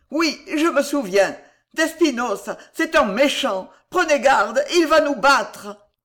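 high, loud frightened warning; vivid terror. A narrator's reading. Madman warns that the inquisitor will beat them, terrified. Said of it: "d'une vive terreur".

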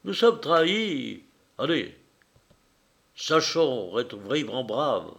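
mock-heroic cry of betrayal; a touch of melodrama; grand tragic stage delivery. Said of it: "s'écria d'un ton tragique".

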